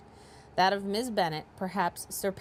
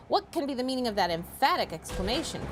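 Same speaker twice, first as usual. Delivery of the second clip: a touch higher, questioning; father's mock surprise; 4 semitones higher, faster than usual. Shown as a demonstration. Father quizzing his daughter, a touch higher and amused. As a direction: ask it with arch curiosity. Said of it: "I didn't read that right".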